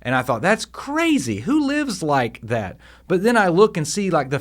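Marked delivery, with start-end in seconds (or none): 0.4-2.8 drawn out as if it's unthinkable; a mildly mocking what, really; retold disbelief. Retold thought on radical giving.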